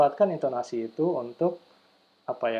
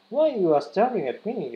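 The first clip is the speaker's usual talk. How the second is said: annoyed stared-at person; 7 semitones higher, 3 dB louder, slower than usual. Retold or imitated. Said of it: "yang dilihat jadi".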